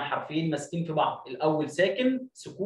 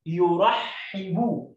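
each word drawn out very slow; teacher stretching يفجر; slow blending; much slower than usual. Shown as a demonstration. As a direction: blend syllables slowly for the class. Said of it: "زي كلمة يو".

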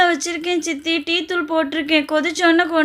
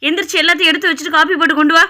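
harsh scolding; 2 semitones higher, 3 dB louder, faster than usual. Acted. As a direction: scold her and rattle off chores. Stepmother scolding the girl harshly.

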